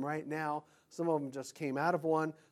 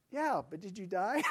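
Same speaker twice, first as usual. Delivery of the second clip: laughing retort; 2 semitones higher, 4 dB quieter than usual. Retold or imitated. Shirt retort to customer.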